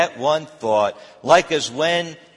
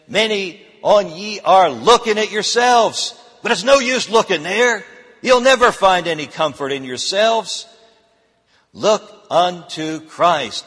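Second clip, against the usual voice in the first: put-on broad Essex accent, louder and higher, preaching; 4 semitones higher, 4 dB louder than usual. A preacher telling the congregation in a broad Essex accent. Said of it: "in broad Essex accent".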